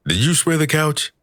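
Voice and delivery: put-on high, disbelieving drunk question; incredulous question. Drunk detective asks his cat about the couch, high and incredulous.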